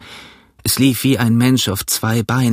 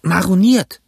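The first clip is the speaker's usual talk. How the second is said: higher, louder rusty sailor voice; old castaway; 8 semitones higher, 5 dB louder, slower than usual. A narrator's reading. Castaway telling Jim he was marooned, rough voice.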